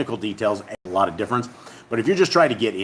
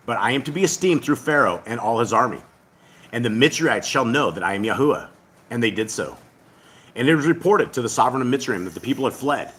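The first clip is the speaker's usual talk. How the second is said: scripture reading. Acted. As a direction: read the passage like a solemn recitation. Reads scripture aloud again.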